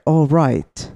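lightly done British "All right"; British accent. Shown as a demonstration. Showing friends what British sounds like, mild British accent. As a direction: put on a slight British lilt. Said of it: "British is like".

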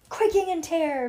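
high, loud relish on the phrase; dramatic echo. A narrator's reading. Bean echoing Ivy's reading, high loud dramatic echo. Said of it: "Bean repeated".

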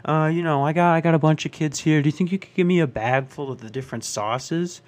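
loud dad asking. Retold or imitated. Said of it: "he was like".

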